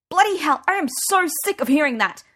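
sudden loud, high furious outburst; angry outburst. Acted. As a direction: explode at him, fed up. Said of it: "I burst out".

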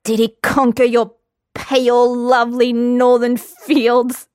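high, slow overblown love-poem teasing; mock romantic swoon. A narrator's reading. Lambert taunting Geralt in a high, slow mock-romance voice. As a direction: ham it up like purple prose.

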